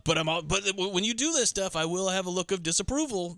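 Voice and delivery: lightly put-on disapproving girlfriend; playing Gong Li. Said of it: "I keep doing the voice".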